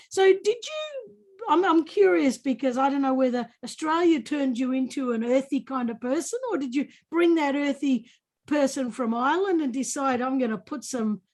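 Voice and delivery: playful put-on Irish leprechaun accent; naughty leprechaun Irish accent. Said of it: "I sound like a naughty leprechaun".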